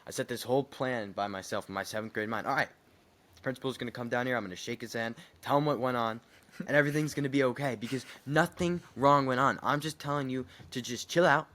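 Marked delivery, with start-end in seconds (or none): 2.5-11.5 loud, high fed-up pleading; exasperated plea. Pretend. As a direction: plead with the teacher to just chill. Imagined speech to teacher.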